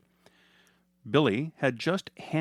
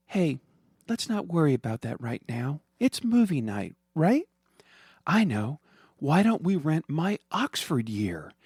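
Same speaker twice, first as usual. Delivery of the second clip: put-on higher, gentle mother soothing her child; reassuring mom; 5 semitones higher than usual. Mother reassuring her daughter about Dad. Heidi changes subject brightly.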